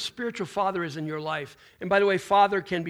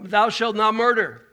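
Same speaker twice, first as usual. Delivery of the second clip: louder, slower commandment; solemn scripture quote; 2 semitones higher, 8 dB louder than usual. Acted. Preacher quoting commandment to congregation, slow and solemn. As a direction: intone it like scripture.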